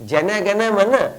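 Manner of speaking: জ্যানা জ্ঞানা মানা mimicked with জ্যানা for জন; mocking mispronunciation. Commentator repeating anthem mispronunciation, mocking. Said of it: "জাতীয় সঙ্গীত উচ্চারণ করছে".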